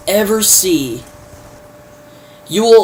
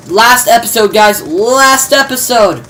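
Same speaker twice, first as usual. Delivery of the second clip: emphatic hype; 5 semitones higher, 4 dB louder than usual. Real, not acted. Dramatic recap of season finale.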